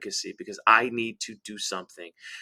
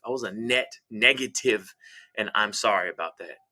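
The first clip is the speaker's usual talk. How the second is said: remorseful apology. Acted. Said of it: "expression of remorse".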